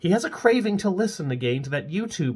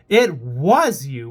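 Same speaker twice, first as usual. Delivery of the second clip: gloating; 7 dB louder, much slower than usual. Acted. Hannah accuses gleefully.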